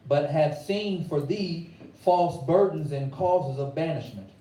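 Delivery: measured preacher reading; scripture reading. Acted. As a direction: read the verse with weight.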